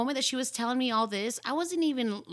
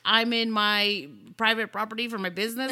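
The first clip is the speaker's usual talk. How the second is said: lightly voiced indignant stranger, louder; indignant attitude; 6 dB louder than usual. Drunk stranger acting like she owns the place, indignant. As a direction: put on an offended, entitled tone. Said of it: "that attitude".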